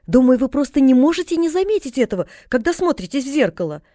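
lightly voiced girl, rapt admiration; admiring girl. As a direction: gush over her like a delighted child. Narrator voices admiring Pollyanna.

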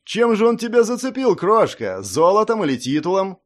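lordling's contemptuous teasing; mocking taunt. A narrator's reading. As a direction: goad her like a cheap conquest. Lord's son taunting the girl.

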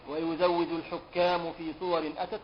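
measured poetic chant; verse recitation. Acted. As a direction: intone the poem line by line. Recites verse lines aloud.

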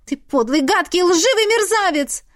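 high, loud furious outburst; exploding. A narrator's reading. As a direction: hurl the insults at him. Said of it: "взорвалась я".

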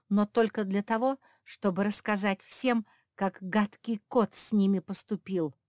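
loud, firm defiance; loud resolute refusal; defiant. Acted. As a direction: stand up to the cat. Dog defies the villain cat.

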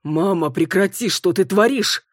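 startled son shouting; alarmed protest. Acted. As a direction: cry out at her to quit. Son protests mother's attack.

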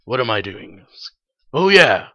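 low, quiet bored sigh. Retold or imitated. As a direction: mumble it like a bored slacker. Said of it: "I'm normally just a little bored".

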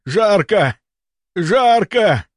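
high, anguished outcry; crying out. A narrator's reading. Feverish patient tearing off his shirt, crying out. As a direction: cry out as if burning up. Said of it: "закричал он".

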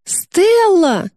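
high frightened shout; shouting name. A narrator's reading. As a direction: cry out her sister's name in alarm. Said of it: "закричала она".

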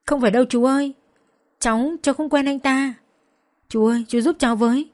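a beaten woman crying out to a neighbour for help. Acted. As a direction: beg the old man to save you. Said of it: "Tôi gào lên".

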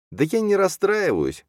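high, slow, whimpering voice; drawn-out tearful squeak, in character; tearful sob. A narrator's reading. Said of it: "всхлипнула она".

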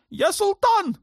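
put-on a shrill-free but very high, raging young sultan. A narrator's reading. Sultan demanding war on Malta from his mother, high raging voice.

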